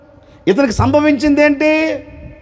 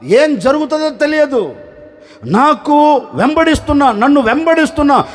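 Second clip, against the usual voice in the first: pleading prayer; 2 semitones higher than usual. Acted. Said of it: "ఎలుగెత్తి ఏడుస్తున్నాడు".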